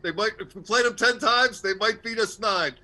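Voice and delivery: rousing coach speech, building; halftime pep speech. Retold or imitated. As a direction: fire up the team like a coach. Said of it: "that's Herb Brooks from the, uh, nineteen eighty Russian game".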